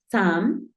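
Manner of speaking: "Sam" with the U of summer sounded as A. Shown as a demonstration. Teacher showing the first part of summer, pronunciation demo. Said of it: "suena como una A".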